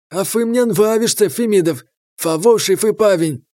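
talking with mouth full; speaking through a mouthful. Acted. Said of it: "с набитым ртом".

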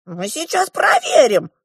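high, drawn-out dwarf voice; eager dwarf. A narrator's reading. The dwarf prepares a test for the girl, eager. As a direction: announce it high and loud.

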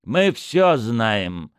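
very slow, weighty, knowing; police chief hinting he knows everything; meaningful. Acted. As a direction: let every word hang. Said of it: "многозначительно ответил Орлов".

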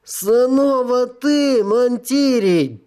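high, slow, long-suffering groan; groaning devil. Acted. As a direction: moan it out in despair. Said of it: "простонал кто-то".

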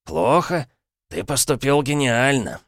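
lively exclamation. A narrator's reading. Uncle praising Dick's trick, lively exclaiming. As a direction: exclaim it eagerly. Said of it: "живо воскликнул Парадайн".

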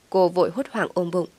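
usual speaking voice

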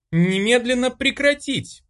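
high, loud commanding shout; angry shout. A narrator's reading. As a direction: order them to stop, furious. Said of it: "гневно закричала Ольга".

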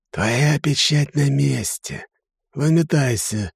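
high, slow, contemptuous brush-off; dismissive serpent. A narrator's reading. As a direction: swat him away like a fly. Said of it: "как от мухи отмахнулся".

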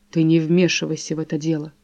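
ordinary delivery

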